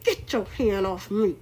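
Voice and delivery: slow, low firm warning; a hint of a cold command; imitating a stern man. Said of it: "grabbed Trump hand and said".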